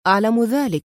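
understated cool reply; coolly indifferent. A narrator's reading. Man answers his angry boss, coolly. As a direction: answer with a touch of coldness. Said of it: "أجابه أدهم في برود".

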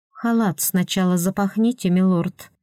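pursed-lip prim "милорд"; prim rebuke, "милорд" said stiffly. Acted. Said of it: "поджала губы Тарья".

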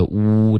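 "呜" with lips pushed forward; rounded oo sound. Shown as a demonstration. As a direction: pout the lips and hold "呜". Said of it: "所以嘴唇要嘟起来". (嘟起嘴唇发"呜")

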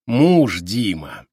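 slow, sneering little voice; lightly voiced smarmy man; a hint of a thin nasty voice. A narrator's reading. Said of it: "противным тонким голосом".

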